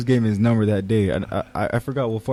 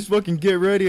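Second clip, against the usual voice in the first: angry threat; 8 semitones higher than usual. Retold or imitated. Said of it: "He was like".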